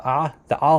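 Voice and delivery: ah said from the throat; guttural ayin sound. Shown as a demonstration. Naming the letter Isa begins with, guttural ah. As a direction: give each ah a throaty Arabic ayin onset. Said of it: "this guttural sound".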